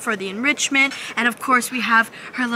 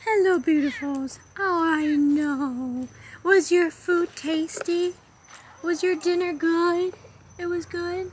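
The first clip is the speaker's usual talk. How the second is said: high, slow cooing; 6 semitones higher, slower than usual. Real, not acted. Keeper asking servals about dinner, slow high baby talk. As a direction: croon to the cats.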